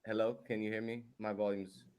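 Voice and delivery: muffled audio, voice dulled. Real, not acted. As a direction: speak as if behind a cloth. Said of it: "It's muffled".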